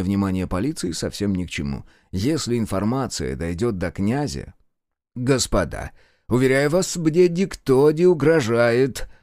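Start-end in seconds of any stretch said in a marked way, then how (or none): 5.1-9.1 words squeezed through clenched teeth, slow; through gritted teeth. Acted. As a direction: hold back anger through gritted teeth. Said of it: "процедил ... сквозь зубы".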